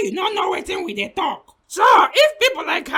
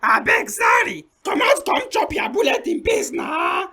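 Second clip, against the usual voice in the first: panicked pleading. Acted. Panicked begging under threat.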